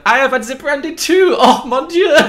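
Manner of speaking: over-the-top fake French accent shout. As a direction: ham up a cliché French accent. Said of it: "all the French cliches".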